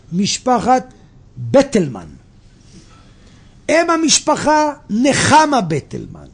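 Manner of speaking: projected, measured read-aloud narration; story reading. A narrator's reading. Speaker reading listeners a tale of old Jerusalem, projected storytelling. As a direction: read it out clearly to a room.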